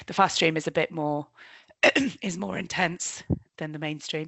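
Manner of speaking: hoarse, strained losing voice. Real, not acted. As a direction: talk through a hoarse, failing voice. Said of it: "I'm losing my voice".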